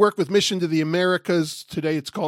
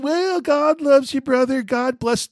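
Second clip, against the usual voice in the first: syrupy platitude; 7 semitones higher than usual. Pretend. Mock-sweet brush-off he could have said.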